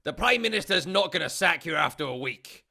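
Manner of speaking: put-on Scottish accent, snarling a minister down slowly; Malcolm Tucker Scottish accent. Spin doctor tells the minister off, in a Scottish accent. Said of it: "his Scottish accent. I'm gonna do it".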